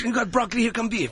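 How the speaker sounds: Jackie Chan. Acted. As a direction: do a loose kung-fu star impression. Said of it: "that is Jackie Chan".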